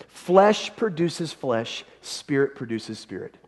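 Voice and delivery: "Flesh produces flesh" drawn out very slowly, each word weighed; slow scripture reading. Shown as a demonstration. Pastor reading the verse to the congregation, slow and weighty. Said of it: "listen, look at verse six".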